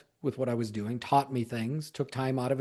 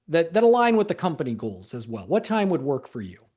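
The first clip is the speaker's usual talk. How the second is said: example request. Shown as a demonstration. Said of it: "here's what an example that would sound like".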